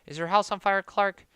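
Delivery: high, loud startled cry; shrill shout. Acted. Old aunt shouting at Clark about the lights, loud and startled. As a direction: blurt it out loud in alarm.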